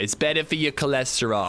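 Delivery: lightly voiced prim scolding; a hint of a prim, preachy partner; mock nagging wife. Partner refusing salted butter, in a lightly voiced prim tone. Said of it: "does she talk like that".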